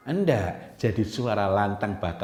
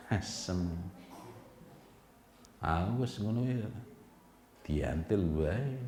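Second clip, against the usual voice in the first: quiet, smiling anger, much softer; angry but keeping it hushed; 9 dB quieter, slower than usual. Retold or imitated. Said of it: "Orang lagi marah sambil senyum".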